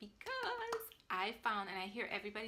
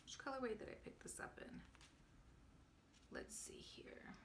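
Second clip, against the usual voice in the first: very soft, near-whispered aside; talking to herself; 4 semitones higher, 14 dB quieter than usual. Real, not acted. Knitter checking the yarn label for colorway, murmuring to herself. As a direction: murmur it while searching.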